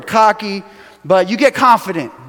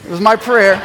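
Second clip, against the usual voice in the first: laughing. Real, not acted. Repeats boast with laugh.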